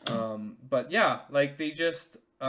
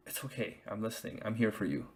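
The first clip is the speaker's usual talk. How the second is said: soft, hushed reassurance; calm her, barely above a breath; gentle reassurance; 3 semitones lower, 6 dB quieter than usual. Shown as a demonstration. Husband soothing his upset wife, soft and hushed. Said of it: "tell your wife and the mother of your child".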